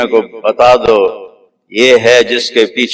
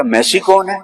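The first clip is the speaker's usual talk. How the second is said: the same question pitched much higher in disbelief; higher incredulous repeat; 8 semitones higher than usual. Retold or imitated. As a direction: throw it up high, amazed that you don't know. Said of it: "میں نے کہا".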